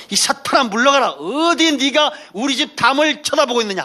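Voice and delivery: a headband-wearing believer shouting at Satan; mock frantic rebuke. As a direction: ham up a panicked exorcist.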